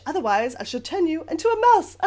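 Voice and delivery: loud, high mock witch threat; bad acting witch. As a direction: ham up a wicked witch. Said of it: "sorry for the bad acting".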